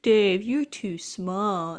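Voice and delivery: slow, drawn-out teasing dismissal; mock condescension. Brothers turning down their little brother, mildly condescending. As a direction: talk down to the little one.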